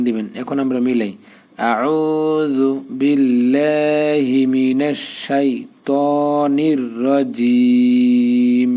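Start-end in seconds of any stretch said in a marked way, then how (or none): 1.7-8.7 slow melodic tajweed chant, long held vowels; Quran recitation. Shown as a demonstration. Teacher reciting the joined Fatiha words for students, slow and chanted. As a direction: recite it slowly, drawing each vowel out in a tune.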